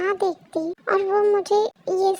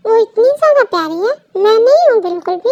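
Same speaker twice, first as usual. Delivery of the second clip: louder, hurt and indignant; jealous retort; 7 dB louder, faster than usual. Acted. Wife jealous of the cousin he praises, indignant and loud. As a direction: fire it back at him, offended.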